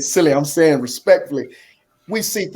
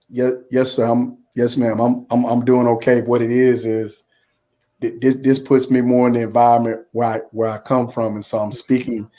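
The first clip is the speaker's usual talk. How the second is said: demonstrating a lower, evenly measured, polite register; proper, measured speech; 4 semitones lower than usual. Shown as a demonstration. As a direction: speak properly and respectfully, keeping the pitch low. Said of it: "speaking like this".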